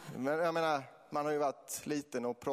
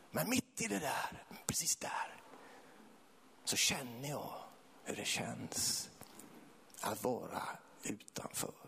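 hushed, halting, half-whispered confession; dämpat allvar; 6 dB quieter, slower than usual. Real, not acted. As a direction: let it drop to a breath with long pauses. Intimate testimony of being an outcast. (lågmält, nästan viskande)

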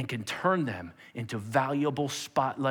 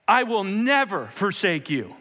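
bold vow; 5 semitones higher, 4 dB louder than usual. Acted. Acted Peter's bold vow.

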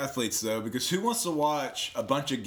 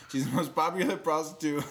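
put-on accidental Irish accent; 3 semitones higher than usual. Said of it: "Why was that Irish?".

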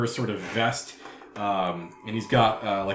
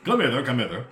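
beckoning devil voice. Acted.

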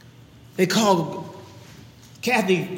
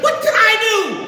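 Elijah asks; 13 semitones higher than usual. Acted. Elijah answering the widow.

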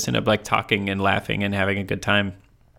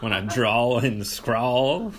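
very slow, laughing through the rhyme; laughing wordplay; 2 semitones higher, much slower than usual. Real, not acted. Joking about her southern drawl, laughing. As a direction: drag out the rhyme while giggling. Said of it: "Have you noticed my".

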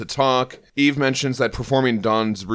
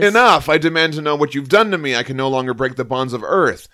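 booming herald voice; 3 semitones higher than usual. Acted. Reads Silver Surfer's lines.

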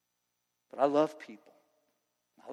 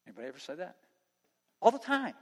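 usual speaking voice

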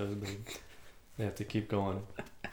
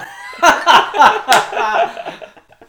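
loud, high cackle; real laughter at the bit; high burst of laughter; 13 semitones higher, 11 dB louder than usual. Real, not acted. Laughing hard at the scenario.

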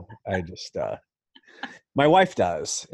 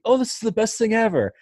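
high, loud, delighted dog; excited dog voice; 14 semitones higher, 5 dB louder than usual. Acted. Host voicing a dog going to eat, thrilled high voice. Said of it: "You can just hear it in their head".

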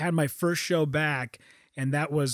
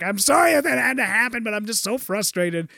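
high-pitched imitation of a tearful apology; retold crying, played half for laughs; mock crying; 4 semitones higher than usual. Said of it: "I'm crying and she's crying".

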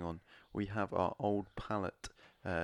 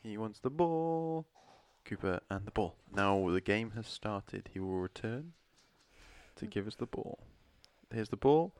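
mock sports commentary. Commentating the dog's game.

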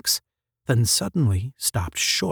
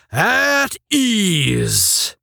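roared; 7 semitones higher than usual. A narrator's reading. Supervisor dismissing the ranks from the booth, roaring. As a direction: bellow it across the platform. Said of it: "he roared".

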